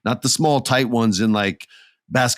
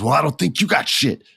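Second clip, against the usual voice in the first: higher-pitched taunt; cocky challenge; 6 semitones higher than usual. Retold or imitated. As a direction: goad a rival. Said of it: "so then Logan goes".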